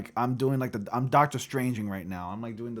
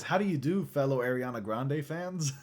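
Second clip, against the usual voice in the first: higher, cheery fake greeting; meme caption; 3 semitones higher than usual. Reading a meme caption as the imposter, mock cheery. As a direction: read it as the awkward imposter. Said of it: "And it says".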